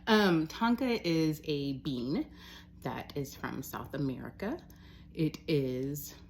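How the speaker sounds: slow, measured explaining with lifted phrase ends; odd stilted delivery. Real, not acted. Explaining the tonka bean to listeners in an oddly slow, deliberate way. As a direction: spell it out slowly and oddly. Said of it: "why I'm speaking like that".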